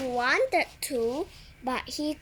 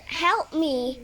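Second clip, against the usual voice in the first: shout; 3 semitones higher, 5 dB louder than usual. Acted. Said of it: "everybody shouted".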